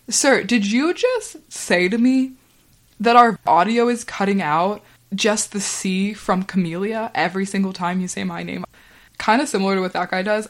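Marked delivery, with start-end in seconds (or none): 0.1-6.4 incredulous. Retold or imitated. Retelling an incredulous challenge to coworker. 7.1-8.6 incredulous. Retold or imitated. Retelling an incredulous challenge to coworker.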